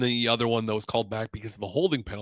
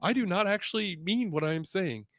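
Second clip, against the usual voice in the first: mock disclaimer; 7 semitones higher than usual. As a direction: spell it out like a sarcastic legal warning. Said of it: "put it in black and white and be like".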